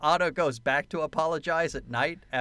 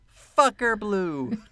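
higher, louder, swaggering thug; tough guy voice; 8 semitones higher, 6 dB louder, much slower than usual. Retold or imitated. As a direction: play it like a cocky gangster granting permission. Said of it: "then when he says".

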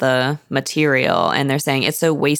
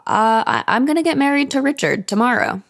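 much higher, hesitant announcement; shy daughter; 9 semitones higher than usual. Retold or imitated. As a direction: stammer it out, voice pitched way up. Meg announcing wedding.

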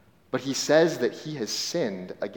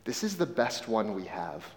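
raspy voice; 2 semitones lower, 6 dB quieter than usual. Retold or imitated. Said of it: "he says in a raspy voice".

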